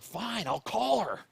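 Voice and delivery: drawn-out, exasperated surrender; acted giving in. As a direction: give in to a nagging thought, slowly. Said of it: "I just got to the point".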